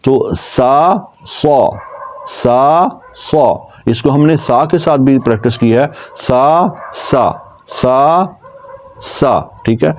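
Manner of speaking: سا with a clear whistling s; whistled s drill. Shown as a demonstration. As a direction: repeat سا, hissing the s. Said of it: "sound کے ذریعے practice".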